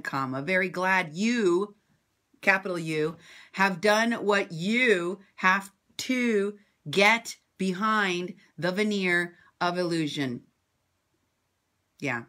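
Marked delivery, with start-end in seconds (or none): 0.0-10.4 mocking dictation. Shown as a demonstration. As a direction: spell out the punctuation to mock him. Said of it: "Let me read that sentence to you again".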